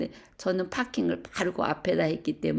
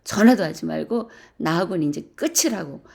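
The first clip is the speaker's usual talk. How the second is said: retold angry scolding; 4 dB louder than usual. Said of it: "화를 막 내면서".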